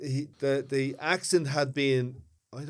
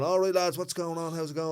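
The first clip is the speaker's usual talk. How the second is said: broad Dublin greeting; 4 semitones higher than usual. Retold or imitated. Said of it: "I'm full on".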